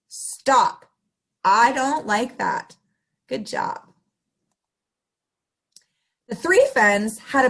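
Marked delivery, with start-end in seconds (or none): 0.1-2.8 repeat model phrase. Shown as a demonstration. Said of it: "Let's hear you guys say it".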